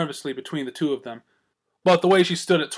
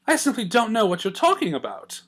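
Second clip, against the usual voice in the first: haughty; 7 semitones higher than usual. A narrator's reading. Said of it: "Rarity sniffed, haughtily".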